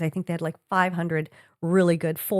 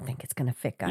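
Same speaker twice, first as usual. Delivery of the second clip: low, softer, calm retelling; level-headed, lowered voice; 9 semitones lower, 8 dB quieter than usual. Retold or imitated. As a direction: break it to them calmly. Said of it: "Were you really that calm".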